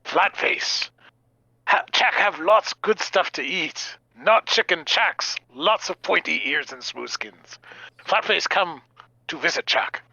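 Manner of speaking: lightly voiced character with simple speech, slowing in places; Chalk. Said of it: "say 'em out in character".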